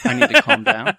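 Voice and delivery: high-pitched, laughing question; laughing, voice shot way up; amused disbelief. Real, not acted. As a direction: echo it back incredulously, laughing. Laughing disbelief at being told off.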